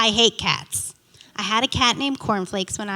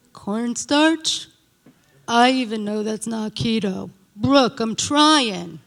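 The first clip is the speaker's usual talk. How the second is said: sheepish manager; 3 dB louder, slower than usual. Retold or imitated. Manager Joe defends himself.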